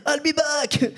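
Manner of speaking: lightly imitated movie-robot catchphrase; Terminator. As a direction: deliver it as a mock action-hero threat. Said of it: "c'est pas une voix très Terminator".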